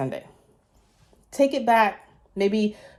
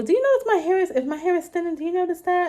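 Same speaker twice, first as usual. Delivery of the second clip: anxious asking; 10 semitones higher, faster than usual. Retold or imitated. Quoting herself asking people.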